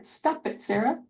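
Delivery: whispered "Stop it" then "Sarah"; model phrase. Shown as a demonstration. Therapist models the phrase for the boy. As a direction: model it softly. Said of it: "put the Sarah on there".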